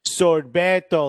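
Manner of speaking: slow, firm "Sorbeto"; correcting. Retold or imitated. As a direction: say "Sorbeto" slowly and firmly like a correction. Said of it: "like, correcting me".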